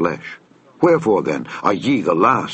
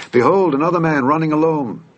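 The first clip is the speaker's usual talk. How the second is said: higher-pitched watchman's call; 7 semitones higher than usual. A narrator's reading. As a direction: call the news to the porter. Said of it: "the watchman called unto the porter".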